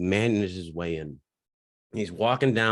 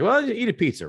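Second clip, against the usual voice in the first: pitched way up, loud, dismissive; mock buddy voice; 13 semitones higher, 3 dB louder than usual. Quoting a friend's brush-off in a high mock voice. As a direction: toss off a sarcastic suggestion in a high mock voice. He's like.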